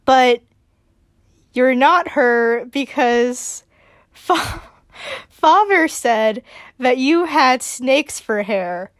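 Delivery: put-on slow, wary little boy; a nervous child hiding behind Britt; kid Spencer voice. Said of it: "he's like".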